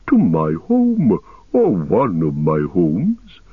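put-on slow, ponderous old tree-giant speaking; ancient, unhurried ent voice; Treebeard voice. Treebeard explains his name to the hobbits, slow and ancient.

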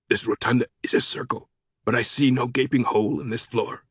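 soft, altered voice for a doubting official; sceptical Sato character voice. Acted. Sato doubting the professor about the rotunda floor, sceptical. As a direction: voice a sceptical director, kept soft.

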